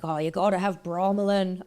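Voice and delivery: rough attempt at a Scottish accent; Australian putting on a light Scottish accent. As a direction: imitate a Scot, still sounding Australian. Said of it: "this is my Scottish accent".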